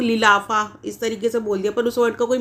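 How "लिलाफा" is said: लिलाफा said in place of लिफाफा; swapped syllables. Shown as a demonstration. Teacher demonstrates the mistaken लिलाफा instead of लिफाफा. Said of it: "गलती कर देते हैं लोग".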